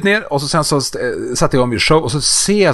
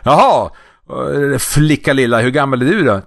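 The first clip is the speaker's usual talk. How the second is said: sweet entertainer voice; 3 semitones higher than usual. Retold or imitated. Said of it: "då kör man det fina".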